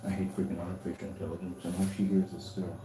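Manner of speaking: low exasperated muttering; grumbling under his breath; annoyed grumbling. Real, not acted. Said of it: "Unfreaking believable".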